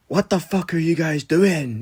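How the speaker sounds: retold angry shout. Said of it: "shouting at us".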